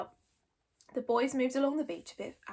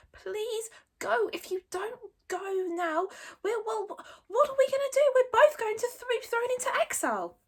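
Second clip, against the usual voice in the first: reasonable; 12 semitones higher than usual. Acted. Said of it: "as reasonably as he could".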